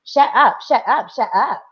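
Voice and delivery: put-on light Valley Girl "shut up"; a hint of a Valley Girl needling; Valley Girl taunt. Mother retelling the girl's taunt, lightly Valley Girl. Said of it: "saying in a Valley Girl way".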